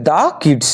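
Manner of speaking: দা as "duh" before kids. Shown as a demonstration. Teacher answers for consonant K, দা as "duh". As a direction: open vowel in দা, then kids. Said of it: "তার উচ্চারণ কি হবে".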